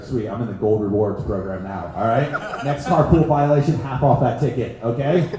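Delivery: excited retold self. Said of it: "I got excited".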